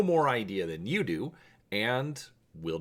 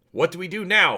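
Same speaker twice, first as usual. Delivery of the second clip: high, loud panicked yell over the wind; 8 semitones higher, 7 dB louder, faster than usual. Acted. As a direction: shout for help as air rushes out. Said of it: "Han yells".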